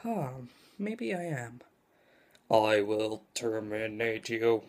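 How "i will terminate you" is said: slow, lower robot threat; lightly voiced robot menace. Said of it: "An impression of a robot?".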